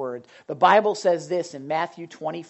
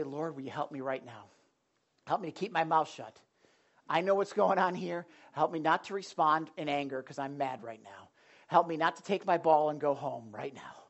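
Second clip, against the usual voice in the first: quiet prayer; 3 semitones lower, 6 dB quieter than usual. Acted. Quoted prayer for help.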